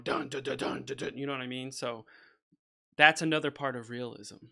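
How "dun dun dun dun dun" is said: imitated drums. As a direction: drum rhythm voiced as "dun". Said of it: "over drums going".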